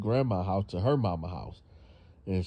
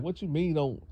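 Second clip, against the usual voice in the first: mock angry mother; 4 dB louder than usual. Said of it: "she just got real angry".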